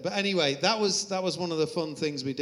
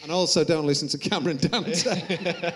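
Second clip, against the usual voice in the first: laughing; 4 dB louder than usual. Real, not acted. Laughing at his lesson.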